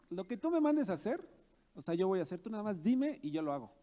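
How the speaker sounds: mock cocky eagerness, pitch jumping up at the start; boastful. Preacher voicing Saul boasting to the Lord, mock boastful. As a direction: imitate someone showing off how capable they are. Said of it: "como jactándose de lo que él era".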